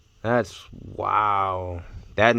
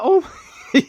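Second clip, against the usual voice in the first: excited gasp; 6 dB louder than usual. Real, not acted. Gasps at flattened cards.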